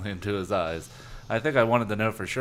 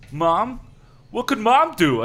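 high panicked cry; 11 semitones higher, 6 dB louder, slower than usual. Acted. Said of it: "I cried in a panic".

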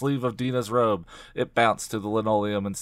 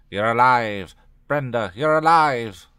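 loud, higher cry of amazement; excited exclamation; 3 semitones higher, 8 dB louder than usual. A narrator's reading. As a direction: cry it out in astonished relief. All start talking, relief acted.

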